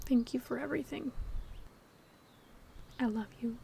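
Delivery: softly spoken. Closing a farewell to someone they may not meet again, softly.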